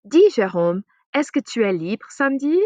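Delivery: a lightly acted, bright question to a friend; asking a friend. Shown as a demonstration. Teacher acts out asking Jérôme out, lightly. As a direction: ask Jérôme casually if he is free Saturday. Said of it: "You can ask".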